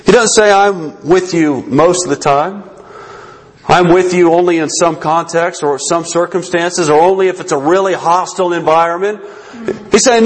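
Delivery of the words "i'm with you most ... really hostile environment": understated, conditional reassurance; matter-of-fact listing of conditions; hedged promise. Acted. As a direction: offer it with limits attached, no fervour. Voicing what Christ does not say.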